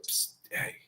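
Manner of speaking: hushed conspiratorial whisper; whispered invite. Retold or imitated. Girl in mass whispering to Joe, hushed. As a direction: lean in and whisper the offer.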